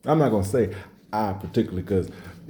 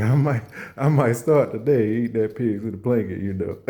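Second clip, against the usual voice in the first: laughing. Retold or imitated. Laughing while flirting.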